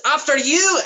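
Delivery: high, sing-song mock courtesy; mock polite cleric. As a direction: hold the door with sarcasm. Nicholas taunts politely in character.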